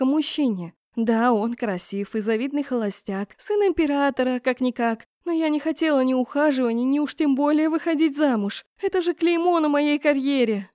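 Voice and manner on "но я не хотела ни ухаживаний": plain reading voice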